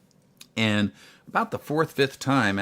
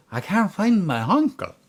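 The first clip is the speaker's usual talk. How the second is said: higher-pitched mock Northern Irish accent; thick Northern Irish accent; 9 semitones higher, 4 dB louder than usual. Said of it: "her accent's so thick".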